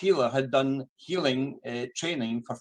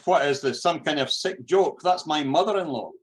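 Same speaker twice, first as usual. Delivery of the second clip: a touch louder, an indignant outburst; suddenly angry; 2 semitones higher, 4 dB louder than usual. Retold or imitated. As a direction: retell the operator turning sharp and accusing. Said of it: "before his tone changed".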